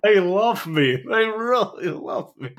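very high, loud, hammed-up gushing; over-the-top mock delight; mock adoration. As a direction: gush like a tearful award winner. Echoes the mock acceptance speech.

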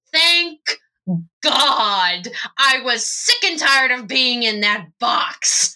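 emphatic, drawn-out fed-up relief. Acted. Zach just out of the box, fed-up relief. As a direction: let out exasperated relief. Toy finally freed from the box.

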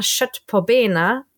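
"Schött po bena" langsam auf Schwedisch gesprochen; schwedische Redewendung. Shown as a demonstration. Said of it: "was man in der Schule öfter mal sagt". ("Schött po bena" langsam und schwedisch ausgesprochen)

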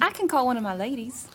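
put-on Southern accent. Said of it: "That was an interesting accent".

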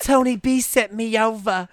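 put-on visitor voice. Woman at the mob door giving her excuse, put-on voice. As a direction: draw it out in a put-on voice.

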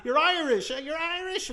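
high, mock-delighted crowing; squealed mock amazement; amused cops imitated. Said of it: "I'm making them all laugh".

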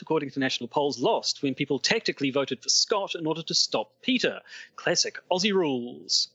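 attempted Aussie correspondent accent; put-on Aussie newsman; Australian accent. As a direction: report in a shaky attempt at Australian. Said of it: "I find Australian accents really hard".

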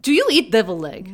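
hammed-up mock Russian accent, dropping articles; bad Russian accent. The speaker greets her co-host in a bad Russian accent. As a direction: play a cartoon Russian host badly. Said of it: "speak in bad Russian accents".

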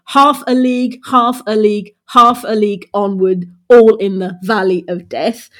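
"half a league" with "half" stressed, "a league" lighter; dactylic verse demo. Shown as a demonstration. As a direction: recite "half a league onward" in a strong-weak-weak beat. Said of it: "there are two unstressed syllables".

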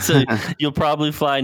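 laughing. Real, not acted. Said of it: "No, you will fly".

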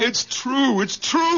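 high excited insistence; insistent joy. Acted. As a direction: make her believe. Insisting to doubting wife.

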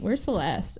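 offhand, imitated afterthought; casual. Creditor asking after Celeste after yelling, casual. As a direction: ask it lightly, in passing. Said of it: "Like, kinda casually".

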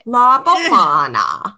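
hammy Italian accent, slow; stretched Italian accent with hand gesture. Shown as a demonstration. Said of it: "I can imitate it".

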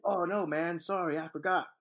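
hammed-up New York cabbie apology; New York cabbie accent. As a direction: put on a New York cab driver's accent. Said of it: "That's my New York cabbie accent".

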